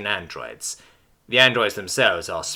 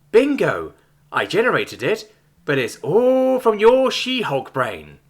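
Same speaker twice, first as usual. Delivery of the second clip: surfer dude; 9 semitones higher, slower than usual. A narrator's reading. Android bro persona.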